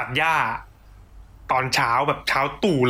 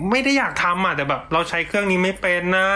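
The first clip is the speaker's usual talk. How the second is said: higher mock-helpless excuse; feigned innocence; 4 semitones higher than usual. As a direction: pretend you never meant it and can't work the machine. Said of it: "ทำเป็นแบบไม่ตั้งใจอะ".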